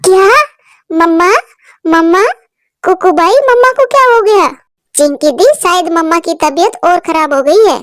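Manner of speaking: put-on worried girl calling her brother; panicked girl. Girl chick frightened her mother won't wake. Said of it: "Chinki घबरा जाती है".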